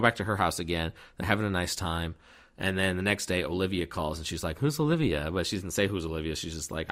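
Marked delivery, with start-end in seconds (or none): 4.6-5.3 high-pitched acted question; mock questioning. She hears Olivia is calling, mock questioning. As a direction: put on her querying voice, pitched up.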